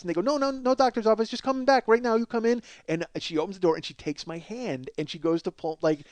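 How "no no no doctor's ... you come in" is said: imitated pushy masseuse, pitched higher; mock eager insistence; insistent parlor women. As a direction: wave off the objection and usher them in.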